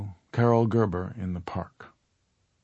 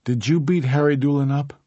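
urgent; 6 semitones higher, 5 dB louder than usual. A narrator's reading. Carol pressing urgently.

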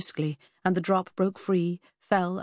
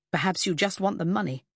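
mild jibe. Acted. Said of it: "she jibed".

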